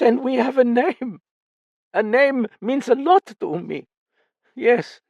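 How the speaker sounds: put-on high and loud old man; proud, swelling voice; old father rising in pride. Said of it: "his voice rising".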